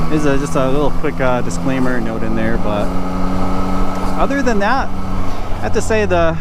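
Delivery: muffled helmet mic over engine; talking from inside a helmet; inside a motorcycle helmet. Real, not acted. Riding bike, talking in helmet.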